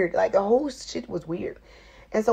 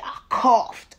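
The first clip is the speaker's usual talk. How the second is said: coughing fit. Retold or imitated. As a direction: cough out mid-word. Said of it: "I started coughing like shit".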